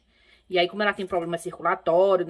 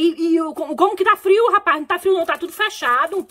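high, louder exasperated retort; incredulous protest; 7 semitones higher, 4 dB louder than usual. Retold or imitated. Answering grandma's complaint of a cold room, exasperated disbelief. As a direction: act out stammering disbelief.

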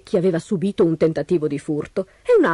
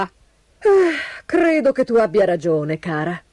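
resigned sigh; slower than usual. Acted. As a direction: sigh and wearily agree with your wife. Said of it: "sospirò il signor Robivecchi". (sospiro rassegnato)

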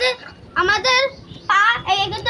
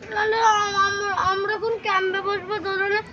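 crying; 4 dB quieter than usual. Real, not acted. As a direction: whine it through tears. Child whimpers about wet swing.

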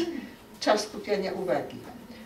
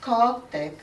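"Kotek" broken into two beats, higher start; syllable splitting; 4 semitones higher, 3 dB louder than usual. Shown as a demonstration. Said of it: "na takie kawałki podziel słowo kotek".

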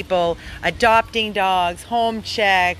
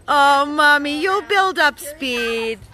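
cheering the running dog on: high, slow, sing-song coaxing; pet talk; 7 semitones higher, 3 dB louder, slower than usual. Real, not acted.

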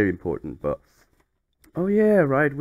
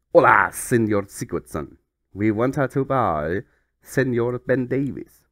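mock Spanish; 3 semitones lower than usual. Reading Spanish club's fax aloud.

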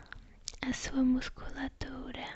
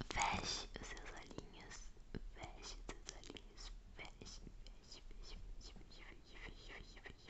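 barely audible whisper, fading away; hypnotic, dwindling whispered repetition; fading whispered echo; 16 dB quieter than usual. Acted. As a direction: repeat it in a whisper until it vanishes. Repeats closing phrase as ASMR echo.

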